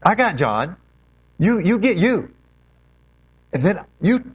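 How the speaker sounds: Jesus correcting Peter, a hint of harshness; harsh Jesus. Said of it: "And he says it harshly".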